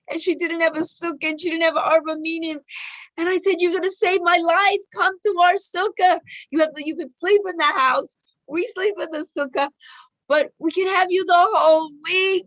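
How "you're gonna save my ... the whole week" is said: urgent, higher-pitched appeal to a friend; excited plea. Retold or imitated. Speaker retells begging a friend to be a sukkah guest, excited plea. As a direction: beg a friend to come, voice lifted. Pleading retold invitation to a friend.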